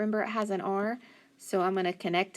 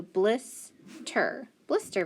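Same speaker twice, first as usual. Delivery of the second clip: slow blending; much slower than usual. Shown as a demonstration. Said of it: "blending the word".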